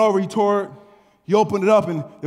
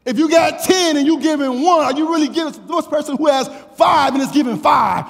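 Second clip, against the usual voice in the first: fervent preaching; 8 semitones higher, 4 dB louder than usual. Acted. Preaching with raised voice.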